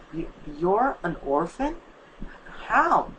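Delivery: shocked. Acted. Asking his friend in shock if she is an orphan, stunned. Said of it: "at me in shock and asked".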